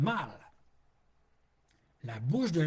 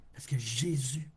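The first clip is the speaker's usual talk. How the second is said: hushed whisper; 2 semitones lower than usual. Real, not acted. Intimate aside about Jesus.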